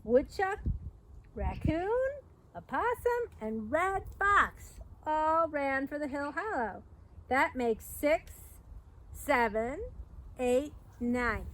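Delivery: slow, lively picture-book storytelling; reading to children. A narrator's reading. Reading The Big Storm aloud to young listeners, lively storyteller. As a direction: read it like story time for little kids.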